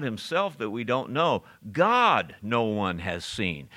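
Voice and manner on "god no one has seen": "God" stressed first, the rest falling away slowly; slow line leaning on "God"; emphasis on God. Shown as a demonstration. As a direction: put the weight on "God" at the front. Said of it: "There's an emphasis here".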